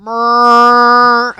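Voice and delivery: loud, sustained "mrrr" noise; loud drawn-out honk. Pretend. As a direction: blast one long steady vocal tone. Wordless noise amid the conch debate.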